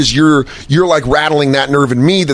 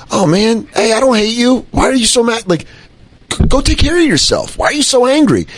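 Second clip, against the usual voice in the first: pitying concern; 8 semitones higher than usual. Retold or imitated. Gently pitying the nervous fan.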